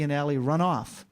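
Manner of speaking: ordinary talk, nothing marked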